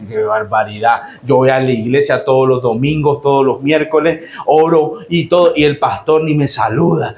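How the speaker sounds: low, grumbling complaint; grumbling churchgoer. Acted. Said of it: "estaría molesto también".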